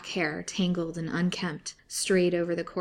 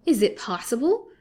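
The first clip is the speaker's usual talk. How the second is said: high, loud startled gasp of a question; startled cry; 6 semitones higher, 8 dB louder than usual. A narrator's reading. Lily stunned to learn Fanny is his wife, startled cry. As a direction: jolt upright in shock. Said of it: "cried Lily with a violent start".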